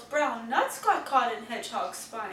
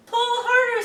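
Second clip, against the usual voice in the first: higher, louder call to pull; urging shout; 10 semitones higher, 8 dB louder than usual. Acted. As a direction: push the team on with a shout. Olivia urging her friends.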